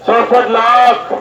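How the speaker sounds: सड़सठ लाख drawn out slowly, लाख hit hard; slow emphatic figure. Real, not acted. Speaker to crowd, slowly stressing the death toll. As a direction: spell out सड़सठ लाख word by word. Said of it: "कितना?".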